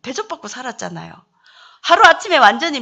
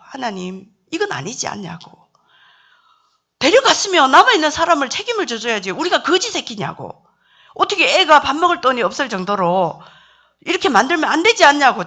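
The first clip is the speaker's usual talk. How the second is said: protesting to God; 3 semitones higher, 3 dB louder than usual. Retold or imitated. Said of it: "제가 막 하나님 앞에 따졌어요".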